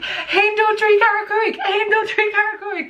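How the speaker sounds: high, laughing shout while running; breathless high laughing call. Retold or imitated. Friend counting them while running.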